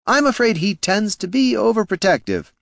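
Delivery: courteous words with a hidden sneer; smooth gnome Flynn. A narrator's reading. Flynn needling the heroes, mock politeness.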